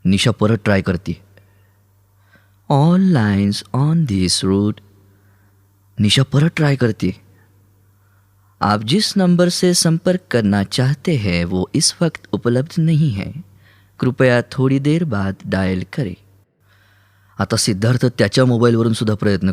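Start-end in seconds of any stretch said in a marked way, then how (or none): 2.7-4.8 very slow, swooping automated announcer; recorded phone message. Acted. The mobile tells Nisha the lines are busy, recorded-message voice. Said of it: "mobile बोलतोय". 8.6-16.1 recorded phone message. Acted. The mobile tells Nisha the number is unavailable, recorded-message voice. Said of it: "mobile बोलतोय".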